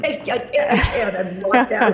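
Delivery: laughing. Real, not acted. Locked out, laughing at herself.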